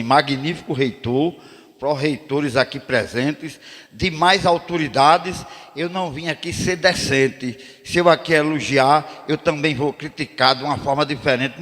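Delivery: slow, solemn speech to the rector; a measured ceremonial address to the authorities; formal rhymed address. Retold or imitated. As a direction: declaim it like a formal orator. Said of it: "aí eu fui lá e disse desse jeito".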